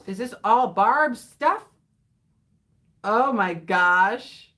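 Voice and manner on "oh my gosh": slow, loud "Oh my gosh"; drawn-out surprise. Real, not acted. Opening a viewer's letter, in slow, loud surprise. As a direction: stretch out the surprise. Reacting to Barb's poem.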